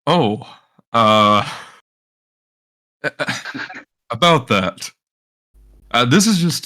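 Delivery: high nervous laughing reply; flustered laugh. Real, not acted. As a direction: laugh it off awkwardly. Flustered player reacts.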